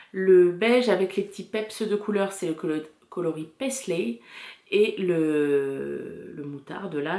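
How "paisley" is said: colour name with an English accent. Shown as a demonstration. Knitter naming the beige colourway to viewers, English accent. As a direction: try an English pronunciation. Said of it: "je travaille mon accent anglais".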